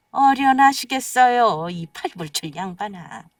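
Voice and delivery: sarcastic jab. Acted. Wife mocks her doting husband.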